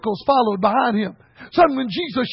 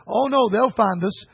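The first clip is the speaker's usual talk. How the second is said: understated, calm retold answer; calm reply; 3 semitones lower than usual. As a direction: reassure him calmly, unbothered. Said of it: "just calmly said".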